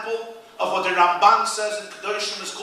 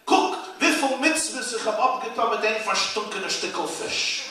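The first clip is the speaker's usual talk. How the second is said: in Yiddish; 4 semitones higher than usual. Retold or imitated. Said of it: "Here I have to say it in Yiddish".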